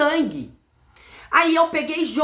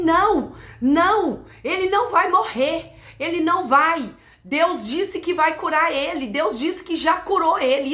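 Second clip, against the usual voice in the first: insistent faith; 6 semitones higher than usual. Retold or imitated. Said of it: "eu falava assim".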